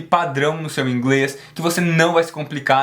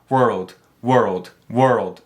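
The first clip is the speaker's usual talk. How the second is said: "world" said faster, fully blended; speeding up; 5 semitones lower, much slower than usual. Shown as a demonstration. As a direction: run the parts together into "world". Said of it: "E vai acelerando".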